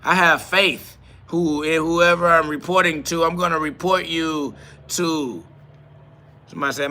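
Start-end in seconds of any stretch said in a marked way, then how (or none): 0.0-5.4 louder, slow, whiny tattler parody; hammed-up mockery of a reporting viewer; mock snitch voice. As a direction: drag it out like a smug reporter. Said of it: "They're like".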